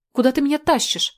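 high, loud cry of panic; panicked scream. Acted. Girl screams at Tolya dragging her, panicked loud cry. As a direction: shriek it as you are dragged away. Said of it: "в панике закричала я".

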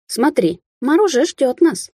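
bright, happy, high and slowed chirp. Acted. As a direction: chirp it out with delight. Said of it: "счастливо прощебетала рыжая".

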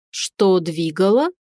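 slow, honestly puzzled echo of her question; sincerely surprised. A narrator's reading. Dragon puzzled by the heroine's question, sincerely surprised. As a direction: let the surprise slow him down. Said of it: "искренне удивился Аристарх".

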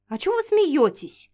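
a touch of stern demand; mildly menacing. Acted. Heroine confronts the laughing men, mock-stern demand. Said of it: "грозно вопросила мужчин".

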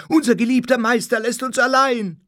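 high, loud lamenting wail; crying out in dismay. A narrator's reading. Mourners lament their dead master, crying out. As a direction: wail it out like bereft followers. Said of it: "schrie alles durcheinander".

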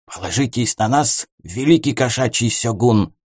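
lightly voiced ninja whisper; a hint of a hushed shadow warrior. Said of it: "прошептала тень ниндзя". (лёгкий шёпот ниндзя)

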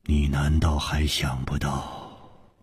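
slow, low and deliberate, each syllable weighed; word by word. Acted. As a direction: lay out 弟子 with a heavy falling close. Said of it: "一字字的说". (楚留香缓慢地一字一字说出)

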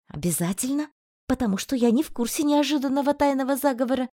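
quick, mocking retort; sarcastic. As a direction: toss it back with sarcasm. Einar's sarcastic reply.

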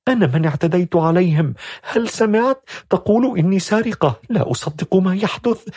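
high, shaken and disbelieving; a girl jolted with panic at the accusation; agitated outburst. A narrator's reading. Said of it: "ثم قالت مرة أخرى بانتفاضة". (بانتفاضة وذعر بصوت عال)

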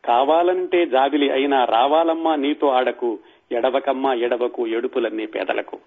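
gentle lyric recitation. Acted. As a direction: recite it like calming a child, trailing off. Recites soothing song lyric.

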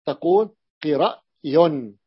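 تقول قرأي spelled out very slowly; slow model answer. Shown as a demonstration. Teacher gives students the answer قرأي, very slowly. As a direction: say قرأي syllable by syllable. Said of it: "ماذا تقول؟".

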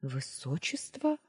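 quiet, slow plaintive question. Acted. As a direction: ask it softly, lost and pitiful. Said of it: "жалобно произнесла". (жалобно, тихо и медленно)

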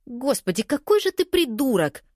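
high, rising furious shout; high outraged yell. Acted. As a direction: scream it at him in disgust. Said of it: "крикнула Сави".

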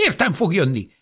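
high, loud cry stressing Értem; desperate old woman shouting Értem fog jönni; angry shout. Acted. Old woman fighting off nurse.

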